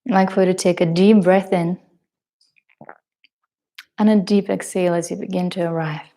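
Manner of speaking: measured meditation guidance with long pauses; guided meditation. Acted. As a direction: guide them gently into the breath, leaving space between phrases.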